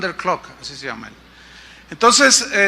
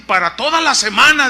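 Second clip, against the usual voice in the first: raised mock-reproachful voice; ironic; 5 semitones higher, 4 dB louder than usual. Pastor with food for the whole week, ironic. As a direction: imitate an ironic caller completing his complaint. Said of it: "en tono irónico me dice".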